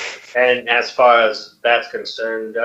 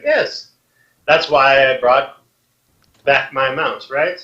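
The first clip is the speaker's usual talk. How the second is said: haughty queen; 3 semitones higher, slower than usual. Acted. Red Queen answering the humans.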